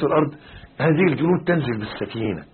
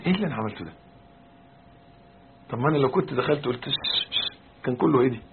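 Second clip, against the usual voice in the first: softer, subdued talking to oneself; acted calmed-down self-reproach; 6 dB quieter than usual. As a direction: play someone reflecting once the row is over. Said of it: "لما تقعد كده وتهدى تقول".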